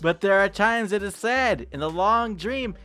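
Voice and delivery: a touch of melancholy narration; solemn poem reading. A narrator's reading. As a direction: read it like a sad lullaby. Reads poem aloud dramatically.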